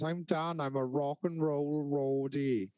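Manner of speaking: slow, a touch smug, as if reading a CV aloud; a light send-up of a roadie bragging; lightly voiced proud roadie; mock self-introduction. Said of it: "that's on my C V".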